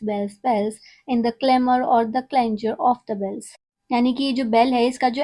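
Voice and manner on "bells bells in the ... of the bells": slow, measured poetry reading; poem recital. Acted. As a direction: read each line out slowly like a recital. Reads poem aloud slowly. (धीमी, नपी-तुली कविता पाठ)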